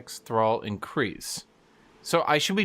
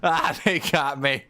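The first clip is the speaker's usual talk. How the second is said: hammed-up defeated villain groan; mock dying god. Streamer voicing the Deathless God felled by a passerby, hammed-up whine. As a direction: whine that you've been beaten, lightly voiced. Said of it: "Ah, he screams".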